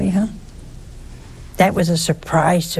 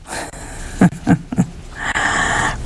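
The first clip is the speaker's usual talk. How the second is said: chuckle; 2 semitones lower than usual. Real, not acted. Laughs after his own remark.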